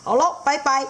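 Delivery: eager seahorse dad. Acted. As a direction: rattle it off, knowing and playful. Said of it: "海马爸爸说".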